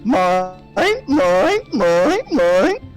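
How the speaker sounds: high, loud squawking mine; Finding Nemo seagulls. Retold or imitated. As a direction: squawk like a greedy gull. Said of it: "Gilbert Gottfried is the seagull".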